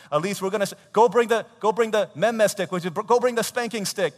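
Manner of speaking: high, very loud mock threat; hammed-up parental scolding; exasperated parent. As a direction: order it at the end of your patience. Acting parent threatening punishment.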